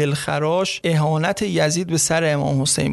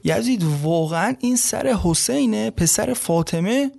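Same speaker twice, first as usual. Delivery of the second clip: stunned wife's question; 4 semitones higher than usual. Retold or imitated. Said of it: "اعتراض کرد و گفت".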